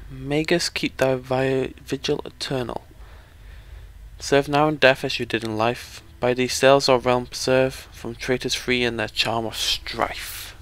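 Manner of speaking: slow, measured incantation; grave reading of an ancient epitaph; solemn inscription reading. Acted. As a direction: intone it like old verse, stretching the line ends. Reads out an inscription.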